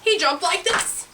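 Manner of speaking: put-on animated read-to-kids narration; children's storytelling. A narrator's reading. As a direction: tell it playfully to small listeners.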